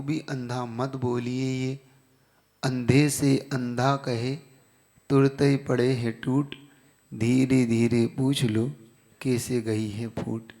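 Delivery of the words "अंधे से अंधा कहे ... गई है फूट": slow, measured verse recital; couplet recitation. Acted. Preacher quoting a wise couplet to his class, measured recitation. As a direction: recite the couplet slowly, line by line.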